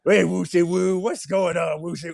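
put-on a light touch of goofy baby talk for the dog. Owner talking the goofiest to his dog, lightly goofy. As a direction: coo at the dog in a silly voice, lightly. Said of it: "I don't talk this way to anyone else".

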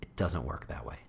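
unvoiced aside, under the breath; hushed, knowing aside; whisper. Real, not acted. Aside after the joke.

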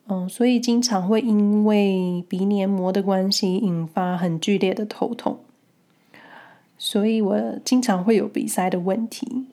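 nasal voice from a blocked nose; stuffy nose. Real, not acted. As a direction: talk as if your nose is stuffed up. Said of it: "你们听起来可能觉得我的鼻音很重".

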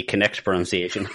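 "connect" said in place of correct; mimicked slip of the tongue on "connect"; slipped pronunciation. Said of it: "As you just said".

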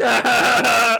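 high, loud screech with laughter; mock monster screech. Godzilla shaking a plane around, laughing mock screech. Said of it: "and it's like".

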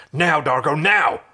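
urgent call for backup; urgent cry. Acted. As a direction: Crichton crying into the comms for Dargo. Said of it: "heard John's cry".

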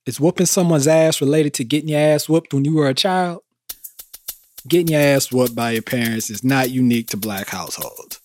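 measured podcast narration; scripted host narration. Acted. Host posing a question to listeners, scripted narration. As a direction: read the segment intro to listeners.

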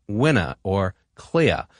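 "winna" and "clear" with no R at the end, slowly; dropped R's. Shown as a demonstration. Host demonstrating the non-rhotic mid-Atlantic ending, R dropped. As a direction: let the final R of "winna" and "clear" vanish. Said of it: "drop their R's at the end of words".

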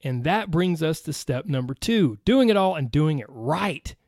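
pumped-up self-help guru voice; motivational hype. Pretend. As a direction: sell it like a fired-up coach. Mock motivational hype speech.

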